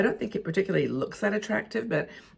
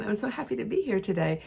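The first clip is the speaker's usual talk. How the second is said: bright, lifted excited voice, pitch up; showing off a more expressive excited voice; 4 semitones higher than usual. Shown as a demonstration. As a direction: sell the happiness, voice going up. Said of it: "I get really excited".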